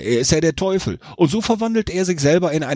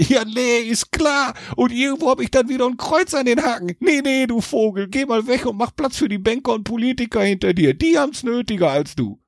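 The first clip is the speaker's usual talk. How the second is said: much higher, sarcastic devil voice; scoffing devil; 9 semitones higher than usual. A narrator's reading. Devil turning Jack away, scoffing. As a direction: brush him off with scorn. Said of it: "Der Teufel lachte".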